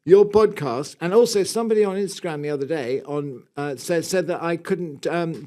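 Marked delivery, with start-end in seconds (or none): 0.1-0.9 attempted Northern English accent. Reading a listener's letter, attempted Northern English accent. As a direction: try a Northern English accent, a little higher. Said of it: "do a Northern accent for toffee".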